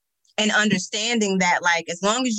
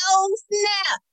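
retold surprise; 12 semitones higher than usual. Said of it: "And I was like".

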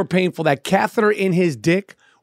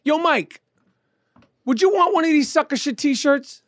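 raised-pitch call to someone off mic; 7 semitones higher, slower than usual. Real, not acted. Host asks off-mic Mike about buying t-shirts, calling out. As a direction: call across the room with a question.

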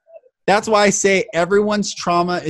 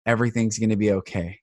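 quiet and gentle; soft reassurance; 7 semitones lower, 5 dB quieter than usual. Retold or imitated. Inner voice telling him to comfort her, soft reassurance. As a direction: soothe a stranger softly. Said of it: "tell this woman".

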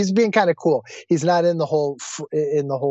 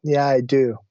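gentle, lowered sincere admission; heartfelt; 3 semitones lower than usual. Retold or imitated. Humbled passenger answering the driver's question, sincere. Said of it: "connected back into my heart".

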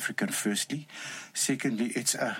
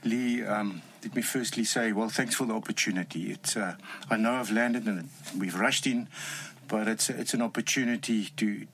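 Afrikaans accent. Real, not acted. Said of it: "You have a strong Afrikaans accent".

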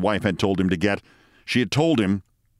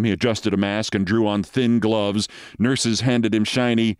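plain reading voice

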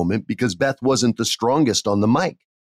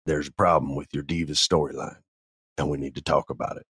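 mock professional; 5 semitones lower, 5 dB quieter than usual. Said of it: "trying to be super professional".

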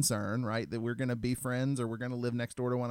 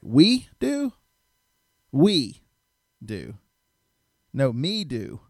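incredulous mock reply; 3 semitones higher, 11 dB louder, much slower than usual. Husband scoffing at wife's "we" request, incredulous. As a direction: scoff at the "we" like it's absurd.

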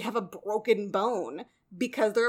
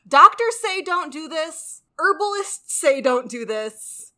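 slow, loud, every word weighted; emphatic warning; 6 semitones higher, 8 dB louder, slower than usual. Real, not acted. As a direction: spell out the warning firmly, word by word. Mock-solemn repeated warning, building.

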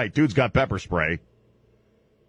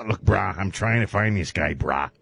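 Dog the Bounty Hunter voice; 4 semitones lower than usual. Retold or imitated. Host voices Dog talking to hillbillies, low laid-back bro voice. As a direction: play it like a chilled-out tough guy. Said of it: "This is how he talks".

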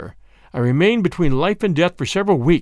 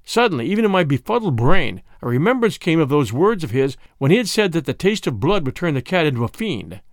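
usual speaking voice

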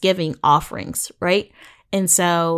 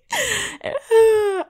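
high, helpless laugh. Real, not acted. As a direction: laugh till it squeaks. Laughs at own impression.

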